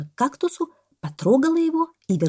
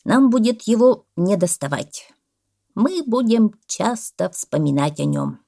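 measured, emotive tribute; solemn farewell; 4 semitones higher, 4 dB louder than usual. A narrator's reading. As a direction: mourn a friend in a speech. Parrot's farewell speech. (прощальная речь попугая)

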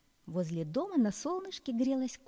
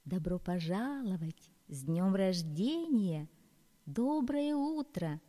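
rustling grass voice; slower than usual. Acted. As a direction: greet like gentle rustling grass. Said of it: "зашелестела трава". (шелестящая трава)

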